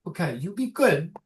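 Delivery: high, gently firm motherly voice; old mother. Acted. Mother saying goodbye to daughter, high gentle urging. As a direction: tenderly admonish in a high voice. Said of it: "He goes".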